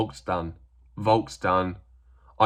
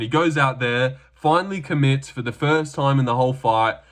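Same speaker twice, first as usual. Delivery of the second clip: usual speaking voice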